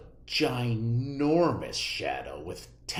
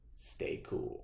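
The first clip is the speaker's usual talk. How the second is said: much softer whisper; 14 dB quieter than usual. A narrator's reading. Teacher telling Clark the rule, whispered. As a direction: breathe the rule quietly.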